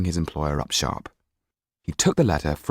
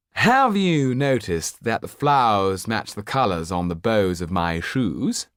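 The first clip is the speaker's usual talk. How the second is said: higher, slow, affected nobleman's voice; preening Marquis; 3 semitones higher, slower than usual. Acted. Marquis boasting to the tired lawyer, slow and affected. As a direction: vain aristocrat savouring every word. Marquis shows off his garden.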